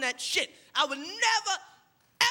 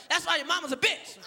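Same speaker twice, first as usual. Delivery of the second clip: mock insult shout. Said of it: "It's like".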